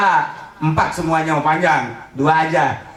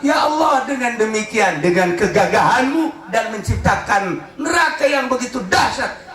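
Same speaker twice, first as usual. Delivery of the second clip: fearful plea; 3 semitones higher than usual. Acted. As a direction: beg God to spare you from hell. Prayer rises into fearful plea.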